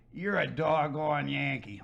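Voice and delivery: drawn-out Southern accent on a retold jab; slow imitation of a Southern woman's accent; imitated Southern accent. Redhead lady confronting a Northern outsider, imitated Southern accent. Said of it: "with that accent".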